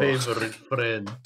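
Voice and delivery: put-on playful Russian accent; mock Russian accent. Player greeting favorite friend, mock Russian accent. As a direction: greet like a jokey Russian comrade. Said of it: "let's be the Russian".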